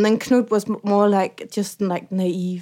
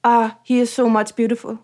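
mock German accent. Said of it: "German Doge".

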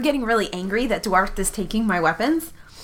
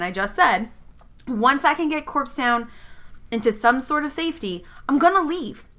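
earnest, pleading apology in character; impassioned speech; 2 semitones higher than usual. Acted. Sal apologizes and promises to leave Corpse Town, impassioned. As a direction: plead your case with feeling. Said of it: "like, an impassioned speech move".

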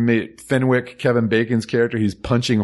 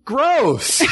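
from mutter to squeal of disgust; building louder; 2 semitones higher, much slower than usual. Retold or imitated. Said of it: "Getting progressively louder".

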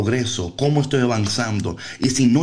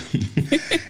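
giggle; 7 semitones higher, 4 dB quieter than usual. Real, not acted. Laughs at own question.

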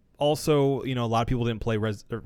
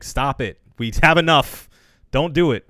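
pleading Mia voice; 4 semitones higher, 8 dB louder than usual. Retold or imitated. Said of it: "Mia was like".

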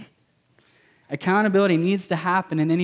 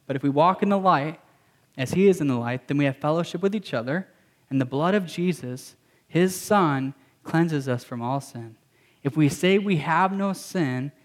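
scripture reading. Acted. Pastor reading scripture to the congregation, measured. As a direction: read the verses aloud to the church, steady.

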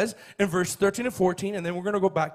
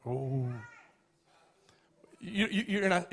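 usual speaking voice

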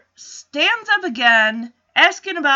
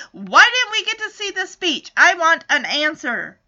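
higher-pitched mock outrage; indignant demand; 3 semitones higher, 3 dB louder than usual. Host takes the episode's director to task, mock indignant. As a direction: demand an answer in playful indignation.

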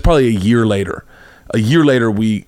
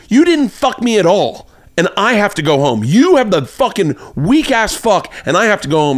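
mock angry rant; 9 semitones higher than usual. Woman leaving, ranting at him, indignant. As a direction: drag out the outrage like a wronged lover.

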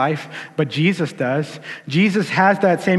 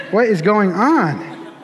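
laughing; 4 semitones higher, much slower than usual. Real, not acted. Laughing at own crying.

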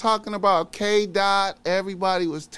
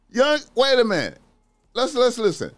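ordinary talk, nothing marked

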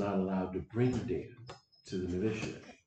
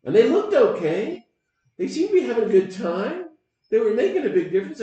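higher, louder, fast enthusing; excited; 13 semitones higher, 10 dB louder than usual. Real, not acted. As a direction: gush with admiration. Enthusing about the Berrigans.

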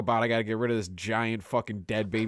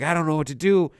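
mock panicked lady; 5 semitones higher, 5 dB louder, faster than usual. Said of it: "She's real freaked out".

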